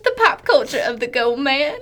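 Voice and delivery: put-on playful botched Southern-ish accent; unidentifiable put-on accent. Co-host teasing the next topic, unidentifiable put-on accent. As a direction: slip into an odd, unplaceable accent. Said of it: "What kind of accent?".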